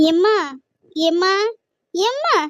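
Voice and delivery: rising, insistent calls; calling out. Acted. Daughter calling her silent mother, insistent. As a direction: call to get her attention.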